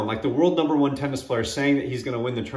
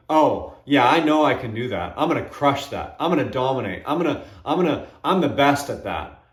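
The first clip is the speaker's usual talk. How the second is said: a mild cocky brag; lightly hammed-up show-off bravado; arrogant boast. Shown as a demonstration. Speaker demos the arrogant answer, mildly cocky. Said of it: "There's a difference between".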